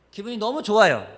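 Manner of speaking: bursting out loud and high with glee; delighted exclaim. Real, not acted. Pastor telling the congregation about bargain joy, loud delighted cry. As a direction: shout the joy of a cheap buy.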